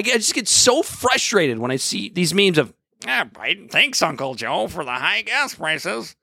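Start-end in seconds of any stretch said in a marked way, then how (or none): 3.1-6.1 mocking meme voice.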